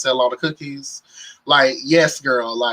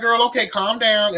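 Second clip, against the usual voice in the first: mock scolding; 6 semitones higher than usual. Voicing Delicious again.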